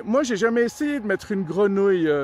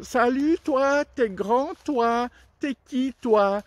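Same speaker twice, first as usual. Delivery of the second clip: higher, slow and drawn-out frog greeting; 4 semitones higher, slower than usual. Acted. Frog greeting the tall giraffe, higher and slow. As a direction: stretch it out, gawking up at the giraffe.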